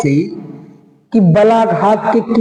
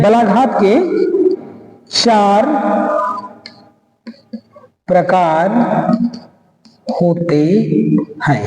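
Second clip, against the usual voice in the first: word by word with long gaps; dictation. Real, not acted. Teacher giving students the answer to write down, dictation. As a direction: dictate in small chunks for writing.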